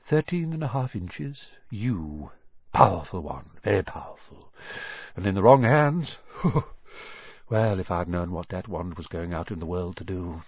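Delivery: a hint of dread in an old man's voice; eerie old wandmaker, dropping low. Wandmaker remembers the wand he sold, lightly voiced and low. Ollivander recalls Voldemort's wand.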